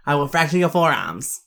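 lightly imitated Boston accent. Reviewer repeats the audiobook threat, in light Boston accent. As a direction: echo the narrator's Boston-sounding line. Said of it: "that's like a Boston accent".

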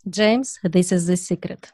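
put-on Russian accent. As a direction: voice the Russian customer, slow and low. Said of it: "I can help you".

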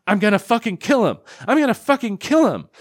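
hammed-up stomping-mad threat, rising in pitch; mock furious mom. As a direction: play an angry mom vowing revenge. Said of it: "Mom is stomping around her house going".

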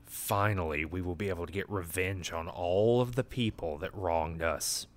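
low, softened villain voice; lightly voiced plotter savoring revenge; a hint of quiet, sinister scheming; nefarious schemer. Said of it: "like, some nefarious shit".

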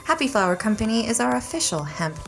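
upbeat sponsor read to listeners. Acted. Host reads the sponsor ad to listeners, upbeat ad read. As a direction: sell the hemp brand brightly.

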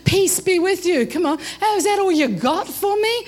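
indignant rant, mildly acted; losing it. Let-down client rants at the counselor, mock losing it. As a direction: protest in quick, mock-outraged bursts. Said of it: "They've lost it".

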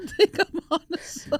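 high squeaky parody of a smug comedian; mock cocky comic. Mocking a wannabe comedian to his cohost, in a high squeaky voice. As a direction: lampoon him with a thin, high voice. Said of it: "echoing the comic".

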